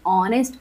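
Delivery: ऑनेस्ट opening on the vowel, no H; silent H demonstration. Shown as a demonstration. Teacher explaining pronunciation to students, ऑनेस्ट with silent H. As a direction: model ऑनेस्ट with the H left silent. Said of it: "यानी कि एच silent होता है".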